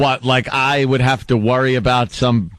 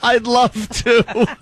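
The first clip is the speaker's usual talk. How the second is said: mock sweet; 9 semitones higher, slower than usual. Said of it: "Can you just tell us what happened?".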